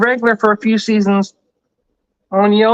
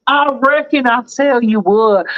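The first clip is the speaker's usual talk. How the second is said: Texan hick accent. Shown as a demonstration. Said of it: "when I talk more like I'm a hillbilly or a hick".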